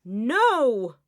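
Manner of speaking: high cry of protest; pleading cry. Acted. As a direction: cry out to stop them. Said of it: "cries Amrita".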